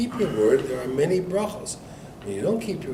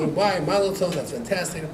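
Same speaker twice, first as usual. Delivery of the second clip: mildly raised, congratulatory pitch; excited congratulations; 3 semitones higher than usual. Retold or imitated. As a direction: act out a congregation's delight, lightly. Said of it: "everybody's so excited".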